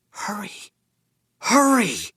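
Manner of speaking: high, panicked urgent cry; frantic urgent call. Acted. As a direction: plead for someone to hurry. Frantic plea on the phone.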